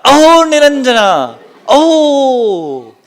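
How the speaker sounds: high, loud cry of awakening; ecstatic cry. Retold or imitated. Janaka hears Ashtavakra's verses and cries out in ecstasy. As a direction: burst out in sudden joy. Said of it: "he jumps from his seat".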